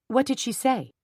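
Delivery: angry demand. A narrator's reading. Jenny confronting the Hendrons.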